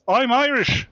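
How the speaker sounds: high mocking whine. Mocking Irish-Americans.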